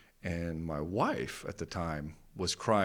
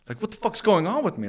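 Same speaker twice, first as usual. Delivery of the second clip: much higher and louder panicked cry; panicked outburst; 12 semitones higher, 8 dB louder than usual. Retold or imitated. In an anxiety attack, crying out to himself, panicked. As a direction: cry out in alarm.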